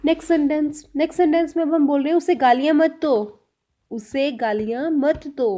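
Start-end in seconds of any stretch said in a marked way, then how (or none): 3.9-5.5 slow, word-by-word teaching pace; slow repeat. Shown as a demonstration. Teacher repeating the example sentence for learners, slowly. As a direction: space out each word for learners.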